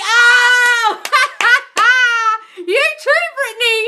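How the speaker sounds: real delighted shriek into laughter; excited shriek. Real, not acted. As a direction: squeal with real glee. Shrieking at comment.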